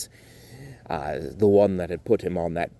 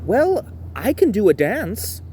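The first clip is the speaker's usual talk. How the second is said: Timothy's voice; 12 semitones higher, 3 dB louder than usual. Acted.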